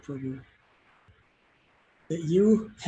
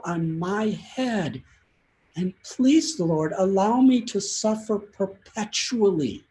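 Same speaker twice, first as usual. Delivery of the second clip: impassioned, heartfelt pleading, louder as it builds; sincere plea; 4 semitones higher, 5 dB louder than usual. Retold or imitated. Vasudev Dutt begging the Lord to take all suffering, in a sincere rising plea. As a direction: beg from the heart, voice rising, then let it sink at the end. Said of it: "said this with such sincerity".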